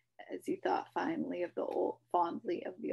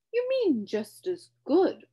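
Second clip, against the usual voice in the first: slow, high, knowing bug voice; correcting; 9 semitones higher, 10 dB louder than usual. A narrator's reading. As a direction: correct him smugly. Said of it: "corrected the humbug".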